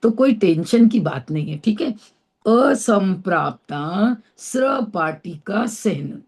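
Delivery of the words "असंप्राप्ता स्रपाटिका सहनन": slow careful name. Shown as a demonstration. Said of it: "आ रही समझ में?".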